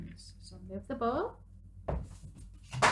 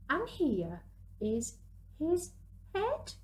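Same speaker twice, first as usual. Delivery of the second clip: excited reveal; 7 semitones higher, slower than usual. Acted. Revealing the snowman's head.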